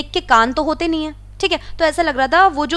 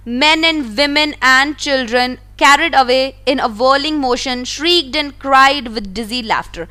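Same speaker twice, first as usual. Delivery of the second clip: slow, careful read-aloud of the story; much slower than usual. A narrator's reading. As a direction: read each word out slowly for the class. Reading the English story text. (धीमी आवाज़ में कहानी पढ़ना)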